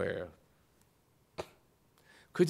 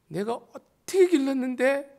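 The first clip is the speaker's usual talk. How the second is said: mock scolding parent; 9 semitones higher than usual. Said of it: "이러냐는 식으로 이렇게 몰아붙이는".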